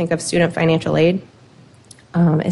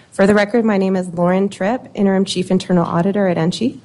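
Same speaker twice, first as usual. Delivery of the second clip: ordinary talk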